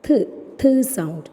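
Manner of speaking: drawn-out, forceful TH; stressed th sound. Shown as a demonstration. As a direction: say "Th" slowly with a stressed puff. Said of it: "So what is the pronunciation?". (ഊന്നി പതുക്കെ പറഞ്ഞ th)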